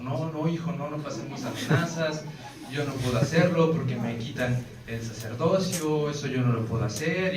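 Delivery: calm him down fast, a little panicked; alarmed priest. Retold or imitated.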